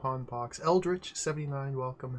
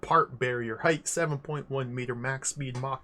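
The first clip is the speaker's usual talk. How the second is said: big build-up to a shouted title; hype announcer read; 3 dB louder than usual. Pretend. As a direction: read the game box like a hype man, erupting at the end. Hype read of game box text.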